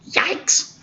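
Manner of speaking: sharp frightened whisper, high and breathless. A narrator's reading. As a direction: hiss it out like a scared burglar in the dark. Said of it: "whispered one burglar".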